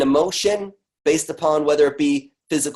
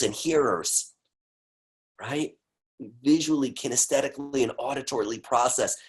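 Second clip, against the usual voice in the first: much softer, hushed explanation; soft-spoken; 6 dB quieter than usual. Acted. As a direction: draw them in quietly.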